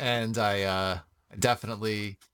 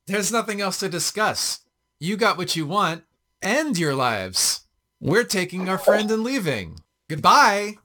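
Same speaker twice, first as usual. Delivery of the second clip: raised, high emphatic dismissal; defiant; 9 semitones higher, 7 dB louder than usual. Acted. Player defies goblin leader while freeing friend, loud dismissive voice. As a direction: loudly shut down the negotiation.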